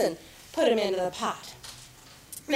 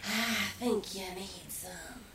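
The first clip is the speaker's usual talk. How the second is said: sly chameleon; 5 semitones lower, slower than usual. Acted. Chameleon offers advice to fox, low and slow. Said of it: "said the chameleon".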